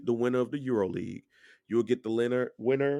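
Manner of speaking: words broken by a water burp; talking through a burp. Real, not acted. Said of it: "Damn, water burp".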